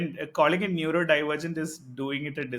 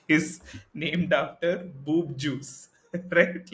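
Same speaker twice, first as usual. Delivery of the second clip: laughing; much slower than usual. Real, not acted. Laughing at the joke.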